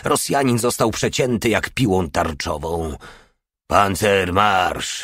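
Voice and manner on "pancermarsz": slow, impatient command; impatient order. Acted. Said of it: "rozkazał stary, niecierpliwie tupiąc". (niecierpliwy, powolny rozkaz)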